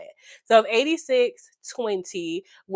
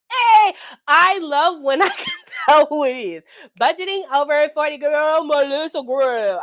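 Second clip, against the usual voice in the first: loud, higher, delighted call to Melissa; thrilled cheer; 8 semitones higher, 8 dB louder than usual. Real, not acted. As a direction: cheer the winner by name. Recognizing winner, thrilled.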